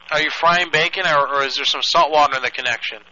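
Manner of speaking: loud radio call over static; crackly construction walkie talkie. Pretend. Radio operator sign-off on phone.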